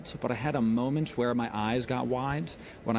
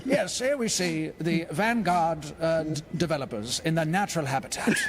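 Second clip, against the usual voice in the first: David Attenborough; 5 semitones higher than usual. Pretend. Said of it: "I have to adopt, like, a British accent".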